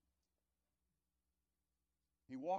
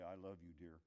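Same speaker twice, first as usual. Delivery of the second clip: tender; 7 semitones lower, 9 dB quieter than usual. Shown as a demonstration. Preacher shows how to say it truly, gently and sincerely. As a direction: hold their hand and mean every word. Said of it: "that subtle hand hold and say".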